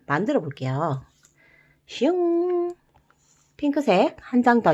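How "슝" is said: high zippy swoosh; playful swoosh. Acted. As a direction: zip it out like a cartoon effect. Playful effect before new step.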